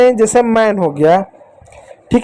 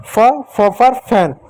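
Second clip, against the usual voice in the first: slow sound demo; slower than usual. Shown as a demonstration. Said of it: "एफ को फ पढ़ते हैं".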